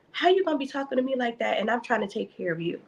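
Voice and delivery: quick, indignant retold complaint; indignant rant. Daughter replaying her angry thoughts, fast and indignant. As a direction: rattle off a hurt grievance fast. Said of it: "that was my mindset".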